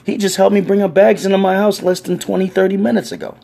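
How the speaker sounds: put-on old lady setting the cop straight; indignant old lady. Elderly neighbour defends the man to police, indignant and high.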